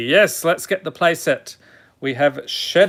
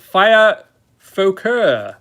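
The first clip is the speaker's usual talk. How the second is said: put-on drawn-out, higher French accent; 4 semitones higher, 4 dB louder, slower than usual. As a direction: put on a mock French pronunciation. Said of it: "they're in French".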